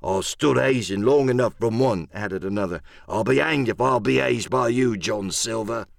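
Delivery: disgruntled pirate crewman's voice; hoarse grumble. Acted. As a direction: grumble back at the captain. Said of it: "a hoarse murmur rose from the others".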